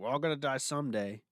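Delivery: hoarse, raspy, worn, gravelly voice. Quoting a lean guy who smokes and eats fast food, in a raspy smoker's voice. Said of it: "He says in that raspy smoker's voice".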